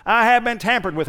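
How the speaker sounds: lightly voiced "I have been tampered with" like a robotic alarm; car alarm voice. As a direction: mimic a tinny car alarm, only a hint. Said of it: "a real tinny sounding voice going".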